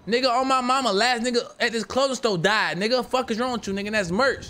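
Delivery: acting out a tough-guy warning; threatening the rival's crew at the store; retold threat. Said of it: "I say".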